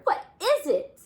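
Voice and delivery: high, loud eager ask; eager question. Acted. Bear eagerly asking Nora about the gift. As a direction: bounce with curiosity.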